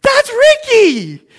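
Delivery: very high, loud, drawn-out yell; imitating an overjoyed brother; retold excited outburst. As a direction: shout it like spotting a long-lost buddy. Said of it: "And he gets all excited".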